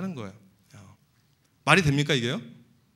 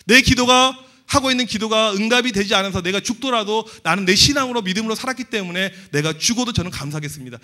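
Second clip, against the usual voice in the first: fervent prayer; 3 semitones higher, 6 dB louder than usual. Acted. Acted prayer, voice raised.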